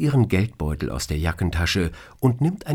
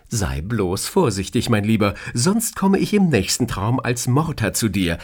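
lightly voiced boss, playful warning; mock threat; 4 semitones higher, 3 dB louder than usual. Boss jokingly warning her employee, mock menacing. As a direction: warn him with a joking wink.

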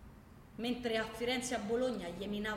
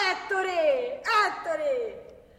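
loud, higher call across a distance; 5 semitones higher, 9 dB louder, much slower than usual. Acted. Calling Ettore to remind him, loud and reproachful. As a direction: shout for him, then scold.

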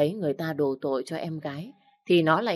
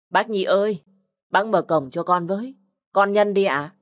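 calling across the yard, raised and higher; 4 semitones higher, 5 dB louder than usual. Acted. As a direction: call to the old man at the gate. Calling at the gate. (gọi to ngoài cổng)

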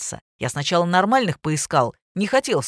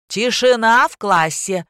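loud, slow, higher classroom shout; teacher yelling; 4 semitones higher, 7 dB louder, slower than usual. A narrator's reading. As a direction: bark at the class to be silent. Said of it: "заорала учительница". (учительница орёт на класс: громко, медленно)

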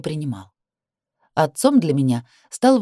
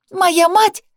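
high furious shout; 13 semitones higher, 6 dB louder than usual. A narrator's reading. Sister defends mother.

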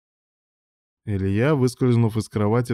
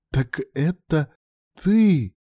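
slow lead-in leaping high on the last word; gasped realization; 8 semitones higher, 4 dB louder, much slower than usual. A narrator's reading. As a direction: gasp it out in astonished recognition. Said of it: "ахнула мадам".

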